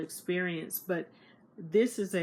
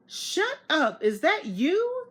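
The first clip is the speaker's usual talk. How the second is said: high, loud stunned disbelief; shocked disbelief; 11 semitones higher, 6 dB louder, slower than usual. Retold or imitated. Narrator realizing Sherry wrote the book, shocked. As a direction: gasp it out, stunned. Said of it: "and I go".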